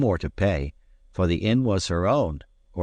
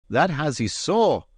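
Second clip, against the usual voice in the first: cried out; 9 semitones higher than usual. Acted. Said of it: "cried Allen".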